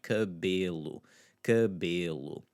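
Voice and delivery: cabelo with a light, short unstressed e. Shown as a demonstration. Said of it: "but it's that e, e sound".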